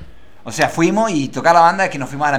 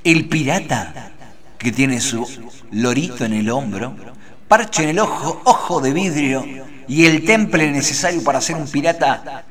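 mock-epic intro; 3 semitones lower than usual. Slow mock-epic guest intro.

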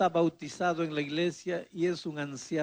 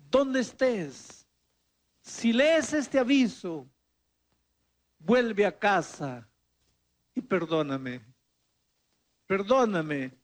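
súplica tierna; 4 dB louder, slower than usual. Retold or imitated. Anuncio del padre a la hija.

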